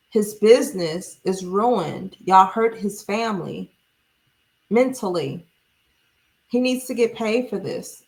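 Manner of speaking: sarcastic mock sympathy; deadpan fake concern. Real, not acted. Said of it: "I'm really being sarcastic".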